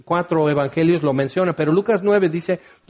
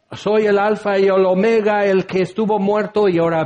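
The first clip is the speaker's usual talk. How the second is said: voice of God; 3 semitones higher than usual. Acted. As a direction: announce it with majesty. Voz divina que habla a Juan. (voz divina solemne y potente)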